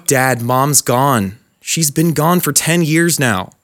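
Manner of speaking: slow and tender, breaking bad news; gentle, slow.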